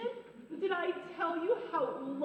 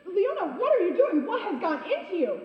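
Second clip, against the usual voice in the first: loud laughing protest; laughing alarm; 8 dB louder than usual. Acted. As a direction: cry out through laughter. Friend catches her with stolen birds.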